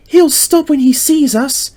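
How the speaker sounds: high, lightly voiced young engine; Mavis thinking. A narrator's reading. Mavis sure the lorry will stop, high voice. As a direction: think it confidently to herself. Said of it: "she thought".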